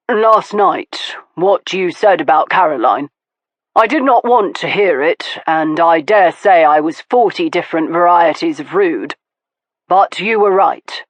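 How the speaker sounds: a lightly voiced man conceding a point; Stoker, grudging apology. Stoker admits to Veronica she was right, grudging. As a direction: own up, a bit reluctantly.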